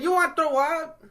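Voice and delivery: put-on loud, very high Asian-accented caricature; ornery mock Asian accent. ER staffer questioning sick patient, ornery mock Asian accent. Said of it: "She's like".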